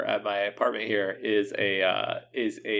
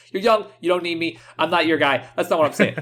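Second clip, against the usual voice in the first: put-on Brooklyn accent; 5 semitones higher than usual. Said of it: "all this heavy Brooklyn accent".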